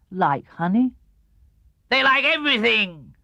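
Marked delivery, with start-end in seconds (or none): 1.9-3.1 bouncy, higher Tigger voice, cheerful; a cheery boast from a bouncy tiger. A narrator's reading. Tigger tells Pooh what Tiggers like, cheerfully.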